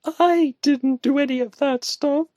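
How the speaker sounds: high, loud indignant protest turning apologetic; huffing, then sorry. A narrator's reading. Woman defending herself to her friend, huffy. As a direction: huff at him, then plead. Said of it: "she huffed".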